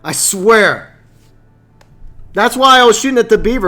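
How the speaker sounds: fed-up gamer rant; exasperated explaining. Real, not acted. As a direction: explain the blunder in frustration. Exasperated explanation of his mistake.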